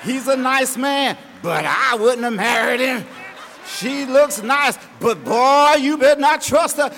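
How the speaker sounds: a hint of a backhanded busybody; mocking gossip. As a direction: imitate a grudging neighbour. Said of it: "Start telling you".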